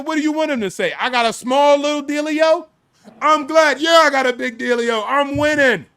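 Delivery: high, loud mock bragging; exuberant, hammed-up retort; gloating comeback. Acts out his gloating comeback.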